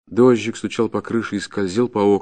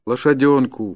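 raised, pleading voice; despairing plea; 5 semitones higher, 4 dB louder than usual. Acted. Peasant begs the forester for his horse, despairing. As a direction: beg desperately for the little horse. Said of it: "повторял он с унылым отчаянием".

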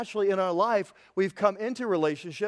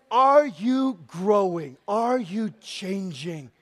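earnest slow question; 3 dB louder, much slower than usual. Real, not acted. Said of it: "I am just saying".

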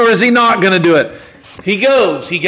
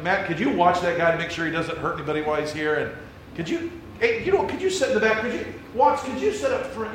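hushed, much softer instructions to the usher; mock whisper aside; 3 semitones lower, 11 dB quieter, faster than usual. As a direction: lean in and whisper the snub. Whispering to usher about visitor.

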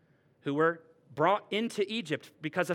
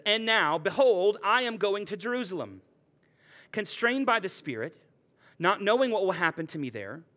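raised, steady reading of the passage; scripture reading. Acted. Pastor reads Paul's farewell to the elders, raised and solemn. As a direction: read Paul's farewell words with weight.

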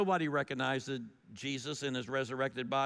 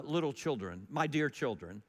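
tender address; 2 semitones lower than usual. Shown as a demonstration. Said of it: "It's not".

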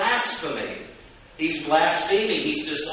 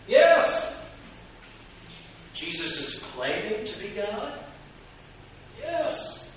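emphatic yes; 5 semitones higher, 4 dB quieter, slower than usual. Real, not acted. Emphatic answers.

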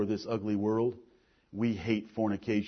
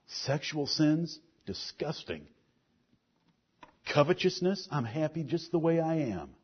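lightly voiced self-righteous churchgoer. Pastor playing a smug listener denying guilt, understated self-righteous voice. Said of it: "let's just pretend that we have a little bit of a self-righteous heart".

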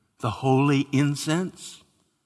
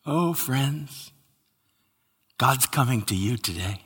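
tender; 5 dB quieter than usual. Acted. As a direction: lean in gently to the friends. Tender address to congregation.

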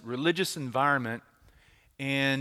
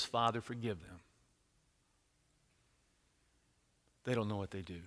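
soft, low dying words; Jesus forgives from the cross, hushed; 5 semitones lower, 11 dB quieter than usual. Acted. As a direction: let it fall almost to nothing.

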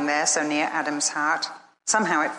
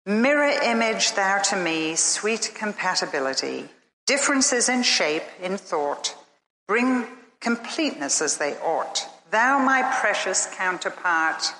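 poem recital. Acted. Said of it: "I can hear Eve saying".

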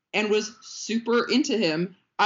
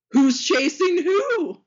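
mock dramatic question; 11 semitones higher, 6 dB louder, slower than usual.

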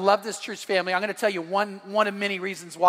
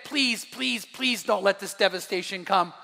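retold begging. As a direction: plead lightly, as if quoting the prophet. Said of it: "he begged him".

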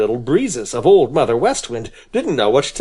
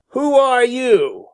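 gruff demand; 10 semitones higher, slower than usual. Acted. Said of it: "he demanded gruffly".

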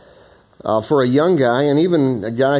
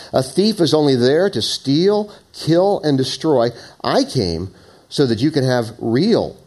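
preacher reading the Message Bible aloud; scripture reading; 2 semitones higher than usual. Acted. Reads Message paraphrase.

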